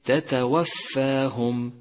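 slow recitation, both ت in تتوفاهم sounded separately; إظهار التاءين. Shown as a demonstration. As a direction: say تتوفاهم slowly, each ت clear and distinct. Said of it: "مثال ذلك". (توضيح التاءين في تتوفاهم ببطء)

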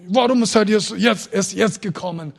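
put-on old woman's plea. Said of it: "sagt auf Russisch, ja, übersetzt".

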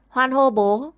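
put-on high, loud little boy's cheer; child cheering. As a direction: cheer with joy like a small child. Boy cheers for father. (bé trai reo mừng, giọng cao)

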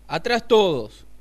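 grito más agudo y fuerte, lento; grito de orden. Acted. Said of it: "gritó el Piojo". (el Piojo grita a todos que se aparten)

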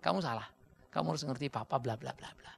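lightly voiced dismissive parent; a hint of a nagging father; mock scolding parent. Preacher imitating a father lecturing his child, mild mock scolding. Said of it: "Anak-anak salah terjemahan".

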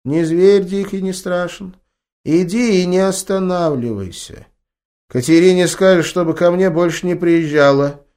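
put-on high, slow old healer, firm; solemn grandma. A narrator's reading. Grandma gives grandson solemn orders, firm granny voice. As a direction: lay down the law like a village wise woman.

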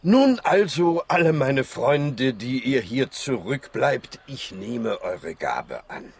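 loud speech to a gathered crowd; farewell address. Acted. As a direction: call out to all your friends. Doctor addresses gathered animals in farewell.

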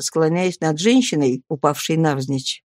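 plain reading voice

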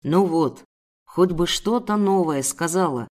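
lightly voiced man, irritated; disgruntled captor. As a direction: dismiss the pleading wearily. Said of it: "Мужчина сморщился".

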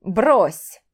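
с усмешкой. Acted. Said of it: "усмехнулся этот огромный Эвей".

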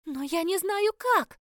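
high, loud, drawn-out cry; desperate shout. A narrator's reading. Vanishing heroine answers the captain, shouting desperately. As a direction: wail it back across the distance.

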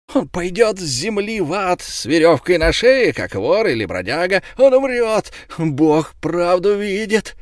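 high, loud malicious glee; gloating. A narrator's reading. Fishmonger gloating before the crowd, high spiteful cries. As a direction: crow with spite. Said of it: "говорил он".

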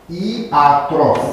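Iatros starting on a clean i, no h; corrective pronunciation. Shown as a demonstration. Teacher answers student's question, Iatros pronounced in hiatus without h. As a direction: say Iatros as i-a-tros, vowels apart. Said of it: "Iatros se pronunță, nu hiatros?".

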